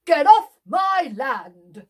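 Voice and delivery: slow loud farmer shout; angry shout. Acted. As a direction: bellow it at the rival. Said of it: "And Farmer Town says".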